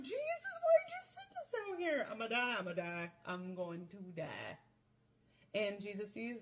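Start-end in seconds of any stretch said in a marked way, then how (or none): 0.0-4.6 panicked disciples. Acted. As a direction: play the scared disciples yelling to Jesus, then fading to a resigned moan.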